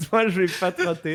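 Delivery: booming, echoing like a big hall; words ringing round an empty church; cathedral echo. Real, not acted. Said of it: "Ça résonne ici".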